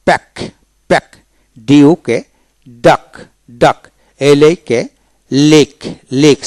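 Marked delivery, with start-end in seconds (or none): 5.5-6.4 লেক ending in a single k; silent-letter pronunciation. Shown as a demonstration. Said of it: "সি উচ্চারণ হবে না".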